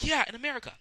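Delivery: high, loud brash reply; shouted catchphrase. Retold or imitated. Keith answers the stranger with a loud shout. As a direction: yell the catchphrase.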